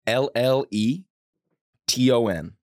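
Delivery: slow letter-by-letter spelling. Real, not acted. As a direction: spell each letter with pauses. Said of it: "Gonna go ahead and spell that".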